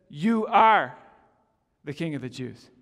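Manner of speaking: a flat statement, not a question; flat mocking statement. Shown as a demonstration. Pilate sneering at the beaten prisoner, flat statement. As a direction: state it coldly to his face. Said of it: "It's actually a statement of mockery".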